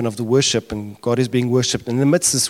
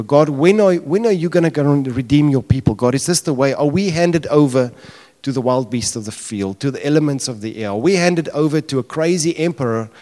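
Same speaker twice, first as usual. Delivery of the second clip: raised, higher, insistent questioning of God; acted anguished plea; 4 semitones higher, 4 dB louder than usual. Preacher voicing John asking God to act, pleading loudly. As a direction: build to a loud protest, then ease off at the end. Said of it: "and he's crying".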